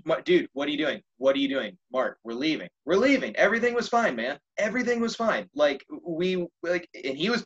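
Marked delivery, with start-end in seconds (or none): 0.1-5.5 pleading. Retold or imitated. Calming a drunk man, pleading.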